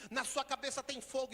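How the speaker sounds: loud, high alarmed warning. Retold or imitated. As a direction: shout the warning at the boy. Healer repeats warning loudly.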